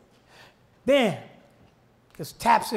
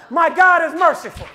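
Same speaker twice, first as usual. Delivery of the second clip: shouted preaching over organ; preaching at full force; 2 semitones higher than usual. Acted. Preacher exhorting the congregation to stay connected, shouting. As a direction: build it up, chant-like.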